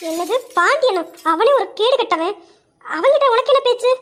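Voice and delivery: sharp, disapproving disbelief; indignant. Acted. Friend appalled she talked to Pandiyan, indignant. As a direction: scold her for even speaking to him.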